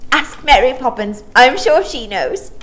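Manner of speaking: put-on high, loud, playful little girl; laughing child voice. Maya to Michael, high playful little girl. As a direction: tease the question away. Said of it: "Maya laughed".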